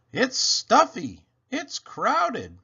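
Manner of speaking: high, loud squeaky complaint; mouse shouting. A narrator's reading. Mouse shouts from the crowded sack, high and loud. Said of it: "Mouse started to shout".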